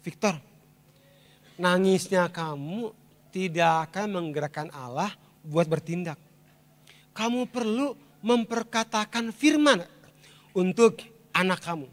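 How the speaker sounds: lightly voiced, quiet instruction to a weeping father; voice from God. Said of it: "waktu saya nangis ada suara".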